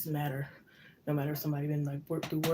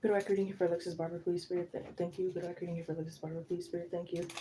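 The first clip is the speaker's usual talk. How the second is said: softly recited request to Spirit, growing quieter; murmured invocation; 5 dB quieter than usual. Real, not acted. Reader asking Spirit to open the record, murmured invocation. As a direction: murmur it quickly as a rote prayer.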